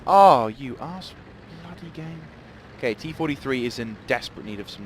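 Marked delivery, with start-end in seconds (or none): 0.0-2.2 loud, slow drawn-out curse; frustrated at the game; angry outburst. Real, not acted. Hit by artillery.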